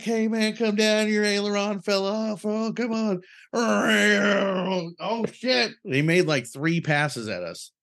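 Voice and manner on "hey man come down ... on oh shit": high-pitched mock yelling from the runway; mock frantic call. Waving at the jet overhead, high mock panic. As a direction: squeak it out like a panicked idiot. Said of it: "you're like".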